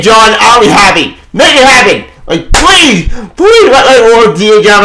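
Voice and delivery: real excited shipping plea; excited pleading. Real, not acted. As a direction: plead for the couple eagerly. Begging for ship to happen.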